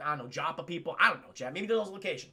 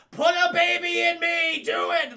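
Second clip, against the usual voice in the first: much higher and louder, breathless with lust; swooning princess; 9 semitones higher, 7 dB louder, slower than usual. Retold or imitated. Andromeda swoons over Perseus, high and loud. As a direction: gush like a lovestruck princess. Andromeda smitten at first sight.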